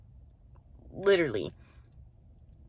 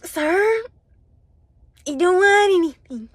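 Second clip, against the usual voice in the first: mock firm brush-off; 10 semitones higher, 10 dB louder than usual. Brushing off a pushy guy.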